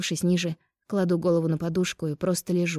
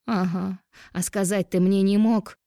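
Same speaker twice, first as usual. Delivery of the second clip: злое шипение. Acted. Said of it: "Зло зашипела я".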